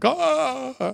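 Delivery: high, drawn-out "oh"; mock swooning sigh; starstruck swoon. Imitating a starstruck fan, high swoon. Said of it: "He gets starstruck".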